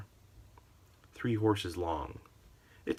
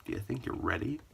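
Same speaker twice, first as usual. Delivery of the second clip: ordinary talk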